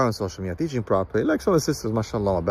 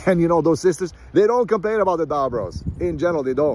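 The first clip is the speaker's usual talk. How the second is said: amused; 7 semitones higher than usual. Real, not acted. Amused aside about good sisters.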